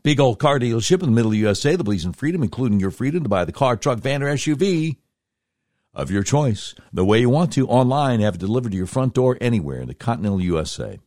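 rapid radio ad voice; fast ad read. Acted. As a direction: rattle through the sponsor copy fast. Reads the sponsor ad.

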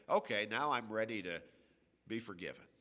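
mocking a careless sinner turning to God; flippant, careless. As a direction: toss it off like it's nothing. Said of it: "flippantly and carelessly, casually".

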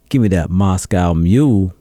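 bold confident order; with your chest. Pretend. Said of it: "you say that with your chest".

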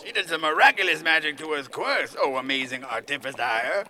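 loud theatrical praise; hammed-up reverent proclamation; florid tongue-twisted homage. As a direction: declaim ornate words to a master. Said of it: "Sound like my tongue got stuck in an elevator".

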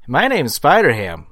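slow, crisp comedian delivery; deadpan standup impression; John Mulaney impression. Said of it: "my John Mulaney impression".

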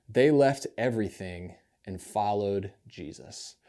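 measured, reverent reading of the gospel to the congregation; scripture reading. Acted. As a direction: read the passage steadily, like a lector at the lectern. Reads the gospel passage aloud.

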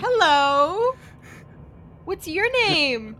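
1 gentle greeting. Acted. Player gently greets child.

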